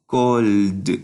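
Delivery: CALLED in one syllable with a voiced final "d"; voiced D ending. Shown as a demonstration. Teacher explaining voiced endings, CALLED finished on a clear "d". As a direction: model CALLED, sounding the last D. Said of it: "se pronuncia como D".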